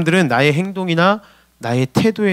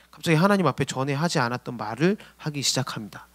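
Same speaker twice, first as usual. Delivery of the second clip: ordinary talk, nothing marked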